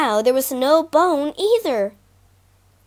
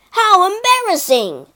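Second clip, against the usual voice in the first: embarrassed lion; 8 semitones higher, 5 dB louder than usual. Acted. Lion trapped, humiliated.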